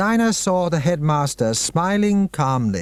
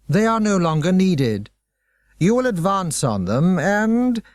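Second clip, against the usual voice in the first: slow, measured orders, pitched up; commanding headmaster; 5 semitones higher, slower than usual. Acted. Headmaster ordering hypnotized children, slow and commanding. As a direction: drive each command home slowly.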